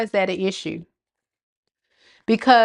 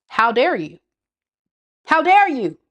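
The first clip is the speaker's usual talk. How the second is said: pitched up, whiny how dare you; mock childish outrage; 5 semitones higher than usual. Reader mocking ex who feels owed, whiny childish outrage. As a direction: mimic a spoiled grown child. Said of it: "So it's like".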